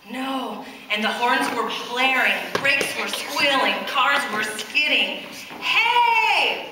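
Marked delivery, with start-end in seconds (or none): 5.6-6.7 high, loud angry yell. A narrator's reading. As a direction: yell at the kids in the road. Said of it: "yelled the taxi driver".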